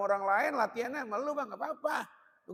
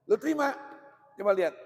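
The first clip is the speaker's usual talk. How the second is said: calling out; 6 dB louder than usual. Real, not acted. Preacher calls out to audience.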